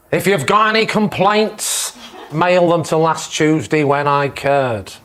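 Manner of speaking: put-on slow, drawn-out Australian accent. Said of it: "why the Australian accents".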